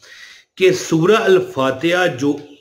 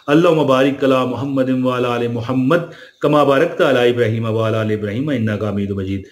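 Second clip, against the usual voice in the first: durood recitation; 3 semitones lower than usual. Shown as a demonstration. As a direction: recite the blessing calmly, a little lower.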